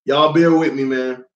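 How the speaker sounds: losing voice, going easy; strained, worn-out voice; hoarse voice. Real, not acted. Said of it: "Losing my voice a little bit".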